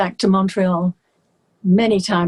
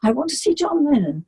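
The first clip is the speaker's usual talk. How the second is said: higher, crying voice; tearful plea; 6 semitones higher than usual. Retold or imitated. Soaked singer begging the concierge, tearful. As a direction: plead through tears. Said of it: "I said".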